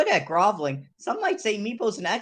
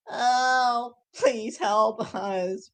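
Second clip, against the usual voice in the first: parched grovel; 3 semitones higher, much slower than usual. Shown as a demonstration. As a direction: plead weakly with a parched throat. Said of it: "it's more like".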